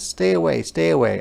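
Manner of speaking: put-on girl warning off. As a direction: warn an animal to back off. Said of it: "gets a stick out and says".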